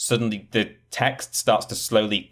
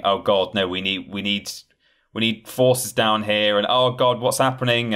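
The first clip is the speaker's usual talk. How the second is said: mock panic; 3 semitones higher, 3 dB louder than usual. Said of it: "panicking and screaming".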